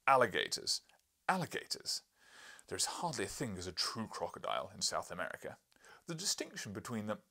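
booming, insistent correction; loud correction. Acted. Professor booming at the narrator. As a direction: bellow the correction at him.

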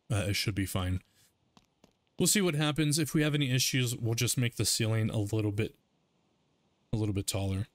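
talking through hiccups; hiccuping between words. Real, not acted. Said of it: "Sorry, I'm getting the hiccups".

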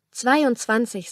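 slow, a touch of trembling fear; mildly shaky frightened answer. Acted. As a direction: answer him unsure and scared. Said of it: "sagte Camilla zitternd".

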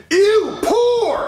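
high, drawn-out cry of disgust; snobbish disgust. Acted.

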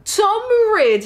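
high, loud sultry name drop; flirty intro.

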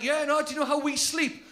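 a cat moaning about its long nap, only lightly put on; cat impression. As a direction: comedian doing a lightly voiced cat. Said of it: "That is a spot-on cat impression".

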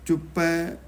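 ਚੁੱਪੈ with a tight, firm middle consonant; slightly tightened. Shown as a demonstration. Teacher models scripture reading, ਚੁੱਪੈ slightly tightened. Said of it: "ਥੋੜ੍ਹਾ ਜਿਹਾ ਕੱਸ ਕੇ ਪੜ੍ਹਨਾ".

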